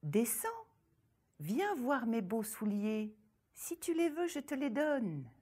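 a hint of a sugary ogress coaxing, rising high; sweet false voice. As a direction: lure her down with honeyed sweetness. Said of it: "prit sa voix la plus douce".

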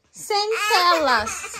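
"Sem telas" repeated slowly through a laugh. Shown as a demonstration. Mother laughing as she repeats no screens to her crying daughter. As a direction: give up and laugh while saying "Sem telas". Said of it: "O que que eu falei pra senhorita?".

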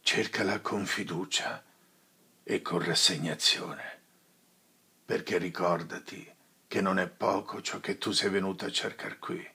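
a lightly voiced old friar, solemn and steady; a hint of a weary old priest; grave friar. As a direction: counsel him gently but gravely. Friar counsels Renzo gravely.

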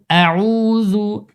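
আউযু with a soft light য; tongue-tip soft য in আউযু; soft zal. Shown as a demonstration. Teacher models correct pronunciation for students, soft য. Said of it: "জালের উচ্চারণ শক্ত করে".

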